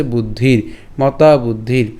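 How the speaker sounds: বুদ্ধির with a long i and a bare final r; hasanta final r. Shown as a demonstration. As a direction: end বুদ্ধির on r with no vowel after it. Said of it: "র হসন্তের মতো করবো".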